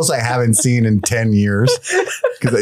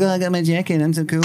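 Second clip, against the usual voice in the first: higher-pitched mocking quote; mock bragging in a raised voice; boastful influencer; 6 semitones higher, faster than usual. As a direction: imitate a show-off influencer. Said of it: "He was like".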